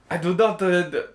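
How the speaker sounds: halting German footballer impression; Werner. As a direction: stiffly imitate a lisping German. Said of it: "oh, I can't do Ver".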